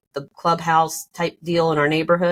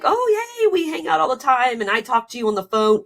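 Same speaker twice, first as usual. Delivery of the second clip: high, gushing fake-friendly voice; hammed-up chummy delight; mock enthusiasm; 8 semitones higher than usual. Mocks an imagined close family bond.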